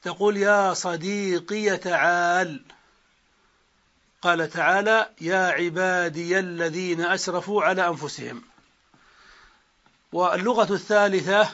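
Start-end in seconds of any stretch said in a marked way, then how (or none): 0.4-2.6 "صديقي" said sadīqiya, ending in -ya; slow demo, add an open "a" after the ya of "صديقي"; ya with fatha. Shown as a demonstration. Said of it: "بإثبات الياء مفتوحة". 5.2-8.4 "عبادي" said ibādiya, linked to the next word; ya with fatha. Shown as a demonstration. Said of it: "بإثبات الياء مفتوحة".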